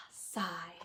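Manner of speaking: a deadpan spoken "sigh". Acted. Stormtrooper answers the question, a low flat "sigh". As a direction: say the word "sigh" flatly and low. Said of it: "And he says".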